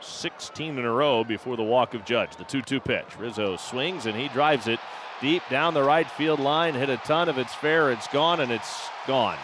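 live radio call building up; play-by-play call. Acted. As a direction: call the action as it happens. Play-by-play home run call.

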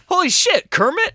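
high gasping disbelief; shocked gasp. Acted. Shock at Kermit falling.

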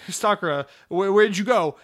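calling out high and loud in mock despair; hammed-up cry of loss; mock panicked yell. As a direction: yell her name like she vanished. Retold panic at game ending.

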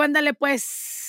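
wife too tired, giving in to husband, weary. Retold or imitated. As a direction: give in tiredly, half asleep. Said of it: "le digo".

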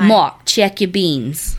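put-on slow, drawn-out repeat of the mama's call with a thick New Orleans accent; lightly voiced Southern mama. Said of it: "You do sound".

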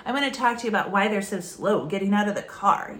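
stiff, formal and a bit combative; confrontational. Shown as a demonstration. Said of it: "You sound so formal, you sound kind of confrontational".

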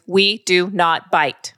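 slow, firm and measured; stern parent correcting a child; stern, not yelling. Shown as a demonstration. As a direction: set down each word firmly, without yelling. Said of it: "in a stern but not yelling voice".

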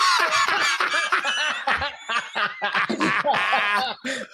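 high wheezing belly laugh; helpless, breathless laughing fit; laughing so hard it hurts; hard laughter. Real, not acted. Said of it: "Oh, I can't laugh that hard".

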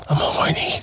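whispered, breathy tease; whispered flirty confession. Pretend. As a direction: whisper it like a secret come-on. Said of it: "why you whispering".

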